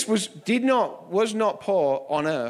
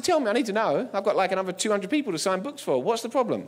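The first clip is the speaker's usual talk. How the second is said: retold nervous insistence; insistent questioning; 3 semitones higher than usual. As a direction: press him for an answer. Presses reluctant man for an answer.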